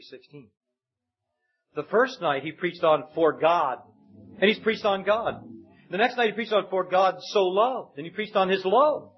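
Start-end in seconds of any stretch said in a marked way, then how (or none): 3.1-3.8 "God" as the weighted word; stress on GOD. Retold or imitated. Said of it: "He put a stress every night". 6.7-8.0 slow phrase landing on "loved"; stress on LOVED. Retold or imitated. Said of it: "He put a stress every night".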